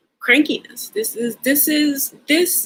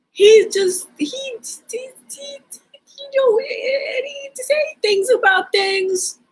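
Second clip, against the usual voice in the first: high-pitched mimicking voice; Seinfeld takeoff; 13 semitones higher than usual.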